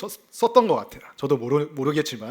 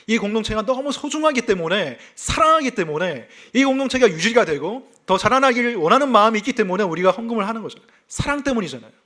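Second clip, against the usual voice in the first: higher, louder appeal, quickening at the end; impassioned preaching; 5 semitones higher, 4 dB louder than usual. Acted. Pastor explains to the church why they give offerings, impassioned. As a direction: press the point about giving with conviction.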